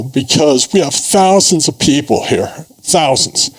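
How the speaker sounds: a little emotional. Real, not acted. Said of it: "I apologize if I'm a little emotional".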